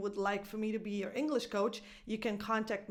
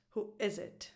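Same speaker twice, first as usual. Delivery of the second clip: "Who is it" with IS stressed, falling after; 4 dB quieter than usual. Shown as a demonstration. Teacher closes the example, stress on IS. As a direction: lean on the verb "is". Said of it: "the stress goes on the verb".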